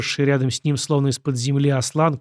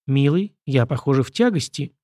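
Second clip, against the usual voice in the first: usual speaking voice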